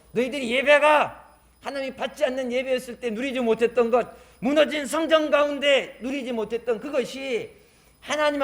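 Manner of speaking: emphatic, declaiming sermon voice; forceful preaching. Acted. Preacher proclaiming God's restoration to Judah and Israel, emphatic.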